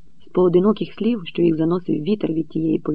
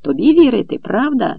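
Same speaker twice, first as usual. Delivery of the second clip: high, loud snapping retort; snapping back; 7 semitones higher, 5 dB louder than usual. A narrator's reading. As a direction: bite back at the heckler. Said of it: "відгризався промовець". (огризається, високо й голосно)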